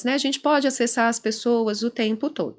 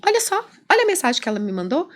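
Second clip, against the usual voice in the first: lightly voiced client, quicker and higher; agitated client; 5 semitones higher, much faster than usual. Client showing the therapist his wife's message, agitated. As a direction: rush it out, a touch higher.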